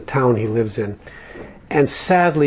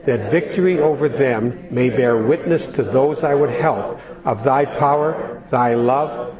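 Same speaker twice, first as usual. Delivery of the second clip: prayer recitation. Acted. Reads prayer aloud with group.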